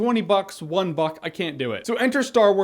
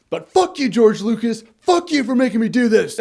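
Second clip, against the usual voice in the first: louder, higher mock outburst at Lucas; half-hammed fury at George Lucas; mock angry rant; 4 semitones higher, 4 dB louder than usual. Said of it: "one of the other ones was like".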